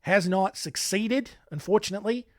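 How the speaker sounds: hammed-up fake Australian accent, slipping now and then; put-on Aussie twang for a true-crime recap; bad Australian accent. Podcast host recapping a killer's fate in bad Australian accent. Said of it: "it's a bad Australian accent".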